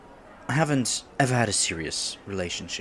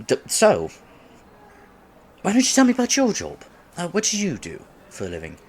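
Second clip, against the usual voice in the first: much higher, fast nervous switch; flustered topic change; 9 semitones higher, 5 dB louder, faster than usual. Acted. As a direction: rush to change the subject.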